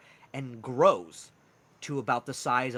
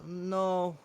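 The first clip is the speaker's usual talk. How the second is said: hesitant Welsh character voice, slightly raised; Welsh accent; 5 semitones higher than usual. Acted. Mushroom man tells Twyla Lennox hasn't written, hesitant Welsh accent. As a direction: break bad news haltingly, lightly Welsh. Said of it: "He has this harsh Welsh accent".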